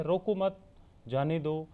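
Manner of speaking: "रोको मत" grouped, pause, then "जाने दो"; pause after मत. Shown as a demonstration. Teacher reads out the second sentence, pause after "मत". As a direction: break the sentence right after "मत". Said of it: "दूसरा जो वाक्य है".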